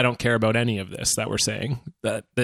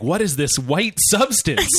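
slow, higher, lightly acted puzzlement; mock wonder; 5 semitones higher, slower than usual. Co-host imagining friend finding whipped cream in wolf, mock wonder. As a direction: play a baffled discoverer, drawing it out. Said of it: "you're like".

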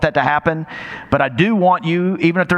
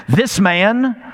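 derogatory tone; 5 semitones higher than usual. Acted. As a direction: sneer it like a scornful Pharisee. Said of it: "notice the derogatory tone".

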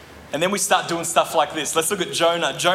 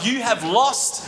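exasperated retort; slower than usual. Retold or imitated. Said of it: "I'm like".

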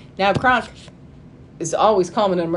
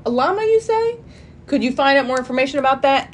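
high eager Yzma; 5 semitones higher, faster than usual. Retold or imitated. Yzma eagerly pressing Kronk.

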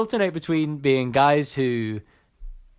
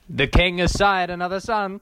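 town crier; 4 semitones higher than usual. Retold or imitated. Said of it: "act like town criers".

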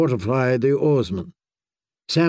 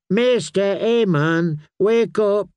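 urgent call; 7 semitones higher, slower than usual. A narrator's reading. Waking a sleeping old man.

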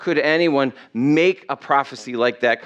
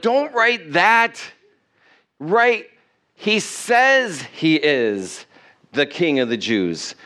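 indignant protest; slower than usual. Retold or imitated. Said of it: "the elders came to him and like".

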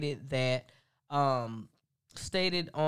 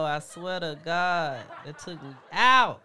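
laughing. Real, not acted. Still laughing about the clip.

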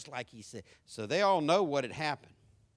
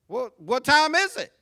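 loud, high comeback; raised-voice, acted impatience; exasperated demand; 9 semitones higher, 10 dB louder than usual. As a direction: press the question with mock exasperation. Acted exasperated questioner presses again.

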